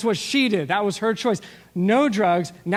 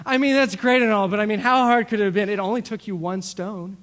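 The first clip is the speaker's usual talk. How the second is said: mock-unimpressed, a bit louder; dismissive minimizer; 3 semitones higher, 4 dB louder than usual. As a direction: shrug off the feat with a sneer. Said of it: "he's the guy going".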